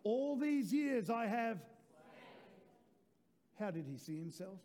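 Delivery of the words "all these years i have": louder and slower, leading the church; a louder second take, slow and rallying; louder slow repeat. Shown as a demonstration. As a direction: lift it up for everyone to repeat. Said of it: "let's do it one more time".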